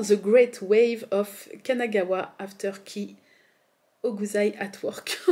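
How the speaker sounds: English title read slowly with a French accent. Real, not acted. Vlogger warns viewers about her accent, French-accented English. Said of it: "Attention à mon accent".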